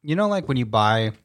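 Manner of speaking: chewing while talking; eating chocolate. Real, not acted. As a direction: talk through a mouthful of chocolate. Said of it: "I've got chocolate in my mouth".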